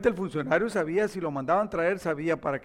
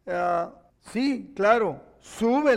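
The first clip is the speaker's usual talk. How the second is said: slow mock agreement; sarcastic go-ahead; sarcasm; 3 semitones higher, 5 dB louder, much slower than usual. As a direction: draw it out as if humouring someone. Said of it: "le dice con sarcasmo".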